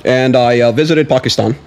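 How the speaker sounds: a hint of a statesman with filler pauses; Obama. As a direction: answer like a measured president at a press conference. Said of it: "then you can do an Obama".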